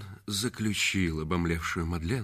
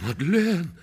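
pained cry; 9 semitones higher, 6 dB louder than usual. Acted. Reggie cries out to Madeleine.

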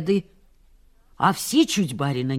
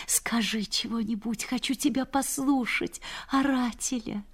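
soft coaxing; 3 semitones higher, 6 dB quieter than usual. Retold or imitated. Wife coaxing husband in crowd.

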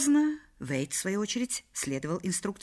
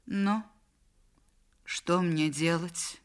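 helpless; much slower than usual. Acted. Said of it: "беспомощно сказала Мадлен".

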